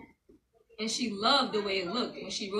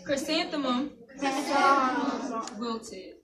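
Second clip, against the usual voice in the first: sad wilted; slower than usual. A narrator's reading.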